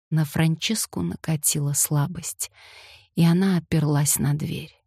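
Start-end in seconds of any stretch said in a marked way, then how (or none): none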